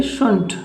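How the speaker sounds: शुंट said as "shunt"; shouldn't clipped to शुंट; शुंट as "shunt", the l and d dropped; saying shouldn't. Shown as a demonstration. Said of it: "और बोलेंगे".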